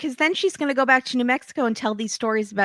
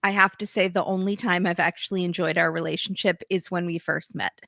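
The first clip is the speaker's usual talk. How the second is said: understated, unruffled retelling of his words; calm. Retold or imitated. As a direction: imitate him talking calmly, evenly. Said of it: "he's talking very calmly".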